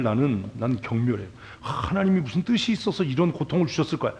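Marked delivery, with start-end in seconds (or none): 1.6-4.1 mock pious consolation. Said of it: "두드려 패고 싶은 인간들이".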